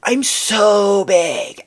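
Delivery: slow stretched loud wail; hammed-up drawn-out whine; mock whine. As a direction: drag it out like a fake lament. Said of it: "you're like".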